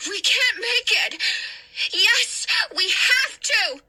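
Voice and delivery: high urgent shout. Acted. Hannah urging Danny through the flames, urgent shout. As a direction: insist over the roar of fire. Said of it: "she shouted".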